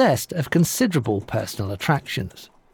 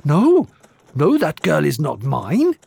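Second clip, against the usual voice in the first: frightened howl. Acted. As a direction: wail it out in fear. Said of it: "howled the little man".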